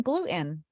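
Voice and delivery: "gluten" with the T dropped to a catch; glu'-in, Jersey style; New Jersey pronunciation. Retold or imitated. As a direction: swallow the T in "gluten". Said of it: "You're saying it funny".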